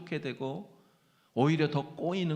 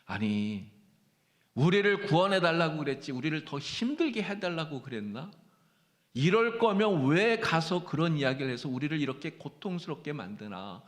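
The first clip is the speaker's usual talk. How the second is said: grumbling complaint; 3 semitones higher than usual. Acted. Preacher voices Israelites grumbling at Moses.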